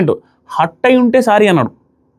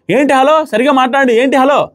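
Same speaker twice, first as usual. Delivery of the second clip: higher-pitched mock snapping back; retold raised retort; 4 semitones higher than usual. Divya snapping back at Madhuri, mock raised voice. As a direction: imitate a sharp, indignant comeback a step higher. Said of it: "పెద్దగా మాట్లాడారు".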